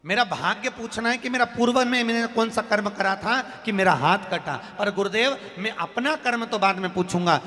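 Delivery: high, forceful plea to the guru; acted impassioned questioning; urgent appeal. Disciple urgently questions great guru.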